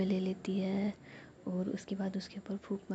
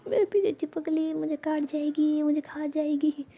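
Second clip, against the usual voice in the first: frightened, much higher and louder; panicked wail; 7 semitones higher, 7 dB louder than usual. Acted. Ruhi begs Jiya about the lizard on her back, terrified.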